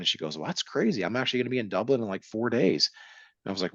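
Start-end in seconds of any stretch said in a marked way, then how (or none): 0.4-2.9 excited friend. Retold or imitated. Brooke excited about Dublin.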